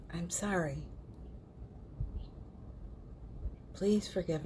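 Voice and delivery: calm, unhurried healing recitation; guided mantra. Real, not acted. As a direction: lead a gentle repeat-after-me meditation. Leads a Ho'oponopono recitation.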